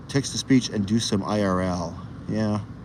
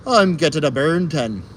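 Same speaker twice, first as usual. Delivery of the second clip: Irish saying; 4 semitones higher than usual. Shown as a demonstration. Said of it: "we Irish call them burn tans".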